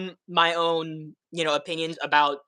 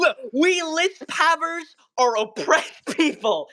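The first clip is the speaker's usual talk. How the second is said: mock solemn; 9 semitones higher, much slower than usual. Joking about lisp pride.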